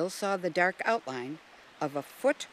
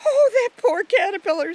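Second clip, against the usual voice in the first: put-on much higher and louder, a young girl's pitying voice; Jill's sorry cry; 10 dB louder than usual. Jill, sorry for the caterpillar, in a high loud girl's voice.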